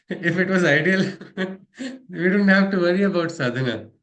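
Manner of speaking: chuckling through the words; laughing. Real, not acted. Teacher laughing to students about sadhana, amused. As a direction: laugh while making the point.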